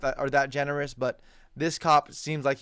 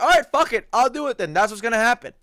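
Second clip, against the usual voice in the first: a cocky higher mock of bravado; mock tough guy; 5 semitones higher, 4 dB louder than usual. Vlogger mocking the player's bravado toward police, louder and higher. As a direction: ham up the tough-guy front. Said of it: "The guy's like".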